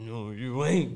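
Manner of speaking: drawn-out talking-dog voice. Retelling what a dog seemed to say, slow imitation of a talking dog. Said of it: "He said it slow too".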